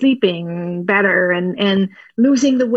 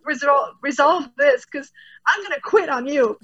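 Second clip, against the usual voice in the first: higher, lightly voiced pleading peacemaker; pleading mediator; 5 semitones higher than usual. Limbic system caught between the brains, higher pleading voice. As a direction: beg two squabbling friends to get along. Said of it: "It's like".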